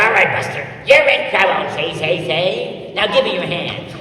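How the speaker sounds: playful mock-tough policeman; funny cop voice. Dad pretending to arrest his little son, funny voice. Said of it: "I gave him the funny voice".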